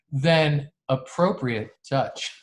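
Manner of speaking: "appropriate" set apart, slow and deliberate; stress on appropriate. Real, not acted. Host qualifying what touch means, with pointed emphasis on "appropriate". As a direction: lean on "appropriate", stretching it out slowly. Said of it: "Emphasis on appropriate".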